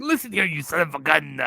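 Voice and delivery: lightly hammed-up wrestler's accent; Santino Marella impression. Imitating the wrestler's promo on Bully Ray, light comic accent. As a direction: tell someone off in a mild put-on accent. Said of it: "with the accent he has".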